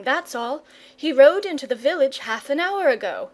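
put-on lively boy. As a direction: tease the dragon with big news. Boy voice, teasing news.

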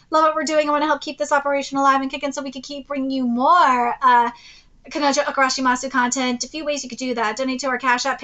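fast, even channel outro; rattled-off sign-off. Real, not acted. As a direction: reel off the plugs briskly.

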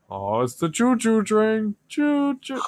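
put-on high, slow sing-song baby talk. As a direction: coo it like to a toddler. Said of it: "I'm trying to make him sound like a baby".

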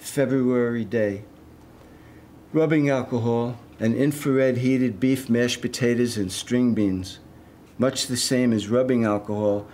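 deliberate, evenly weighted lines with pauses; poem reading. Acted. Poet reading a detox poem to an audience, measured recital. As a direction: read it as verse, lingering on listed images.

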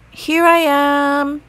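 high, loud, slow call for help; shouting. Acted. Franklin answering his parents' calls, shouting. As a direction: shout to be found, again and again. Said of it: "Franklin shouted over and over".

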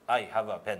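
「I have a pen」をカタカナ英語の母音で; 日本人らしい英語で言う; 日本語なまりの英語. Shown as a demonstration. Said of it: "こっちを使ってる可能性があって". (日本語なまりの英語)

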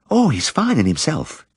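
high, gentle village woman; shy woman's voice. Acted. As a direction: lift the voice for the shy wife. Mrs Cundall voiced.

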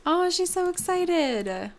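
high, drawn-out gushing; delighted. Real, not acted. Gamer gushing over the excited mom-to-be, delighted. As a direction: coo it slowly, pitched well up. Delighted at the Sim's happy reaction.

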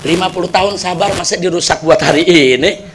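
a hurt husband quietly grieving to God; sad lament. Retold or imitated. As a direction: sigh it out to God in grief. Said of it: "hatinya sedih".

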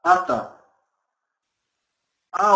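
normal talking voice

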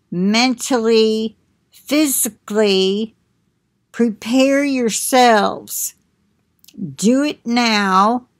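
measured, solemn prophetic delivery; prophetic message reading. Acted. Reading God's message to the listeners, solemn and measured. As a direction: pronounce the warning like an oracle.

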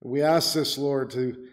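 earnest, measured pastoral prayer; closing prayer. Real, not acted. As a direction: lead the congregation in reverent petition to God. Preacher leads closing prayer.

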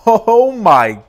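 loud, slow and high delighted squeal; excited squeal. Real, not acted. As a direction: gush over it. Unboxing excitement.

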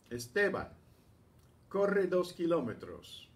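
a hint of a coach giving orders; lightly voiced coach command. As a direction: bark the order like a coach to his runner. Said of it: "Sounds like a coach".

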